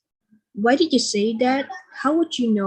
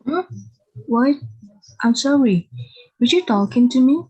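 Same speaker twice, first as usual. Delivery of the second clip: flustered, fast and louder; startled; 2 semitones higher, 5 dB louder, faster than usual. Acted. Stranger interrupts his reading, startled. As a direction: caught off guard by a stranger. Startled man on bench addressed.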